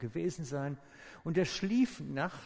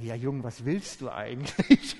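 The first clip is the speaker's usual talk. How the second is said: put-on loud, brushing off the young man; dismissive retort; 2 semitones lower, 8 dB louder than usual. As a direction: wave him off loudly. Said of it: "Da würde ich sagen". (lautes, abwinkendes Abtun)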